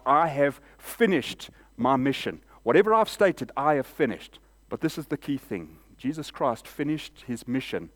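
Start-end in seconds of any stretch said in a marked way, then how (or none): 0.1-4.4 crying out. Retold or imitated. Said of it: "Jesus cries out".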